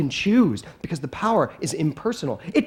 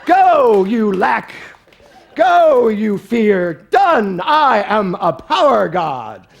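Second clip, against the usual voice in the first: commanding shout; 3 semitones higher, 6 dB louder, much slower than usual. Pretend. Preacher commands lack and fear to go, shouting. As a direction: bark it like a superhero.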